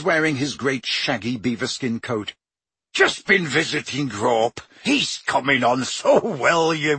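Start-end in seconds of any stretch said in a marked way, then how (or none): 2.9-7.0 lightly voiced gruff giant; a hint of a big friendly groundskeeper; Hagrid voice. Hagrid's voice in story.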